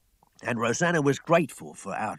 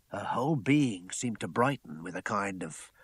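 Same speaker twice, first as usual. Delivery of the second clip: plain reading voice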